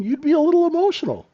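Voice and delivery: teasing punchline in a high cartoon voice; mock squeaky voice. Repeats the joke about the scuba welder.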